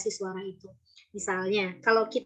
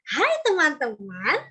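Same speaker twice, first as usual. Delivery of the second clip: slow, lifted startled hello; surprised greeting; 4 semitones higher, 4 dB louder, slower than usual. Shown as a demonstration. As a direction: greet as if caught off guard. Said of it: "ekspresinya terkejut". (sapaan dengan nada terkejut)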